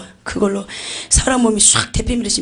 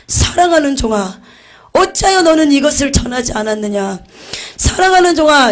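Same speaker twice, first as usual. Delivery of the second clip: rebuking voice of Jesus; 5 semitones higher, 6 dB louder than usual. Retold or imitated. Jesus rebuking the pastor before the throne, stern and loud. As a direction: scold a beloved servant from on high. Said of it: "예수님이 책망하시더라고요".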